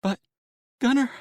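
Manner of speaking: high, shrill call of his name; wife's shrill frightened voice. Acted. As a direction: pierce it out in alarm. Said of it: "her shrill voice was like nothing".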